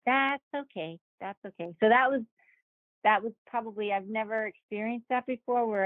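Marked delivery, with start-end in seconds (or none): 0.1-1.0 higher, brightly forced okay; smooth it over for her; a lightly voiced polite reassurance. 1.2-1.7 much softer, trailing okay; the same okay said under the breath; quiet repeat. Retold or imitated.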